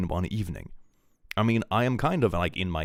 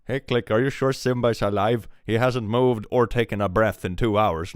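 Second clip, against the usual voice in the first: worried viewers; 3 semitones higher, 6 dB louder than usual. Retold or imitated. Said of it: "people are like".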